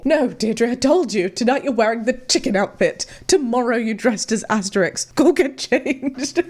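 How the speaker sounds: lightly voiced bossy dad giving orders; a hint of a strict father, drawing out the last command; mock stern father. Mock father ordering daughter's outfit.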